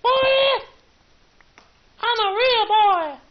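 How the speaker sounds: very high, loud slow shriek; shrieking scream. Pretend. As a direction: scream it at the top. Screaming real boy.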